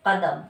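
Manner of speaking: कदम with a throaty Urdu q for the first क; Urdu nukta sound. Shown as a demonstration. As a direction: say कदम the Urdu way, the क made far back. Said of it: "पता लगना चाहिए कि उर्दू का शब्द है".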